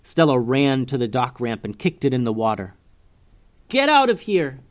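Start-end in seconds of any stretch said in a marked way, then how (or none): 3.7-4.6 higher, louder urgent yell. Acted. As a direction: drive them away. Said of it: "she yelled to the boat".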